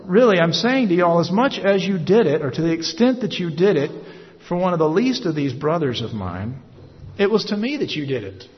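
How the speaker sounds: preacher lightly voicing the king; the king's reply. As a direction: let the king insist, lifting the voice.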